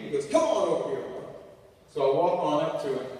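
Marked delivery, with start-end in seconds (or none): 0.3-1.2 raised, louder mock summons; calling over. Redneck boss calling a worker over, hollered.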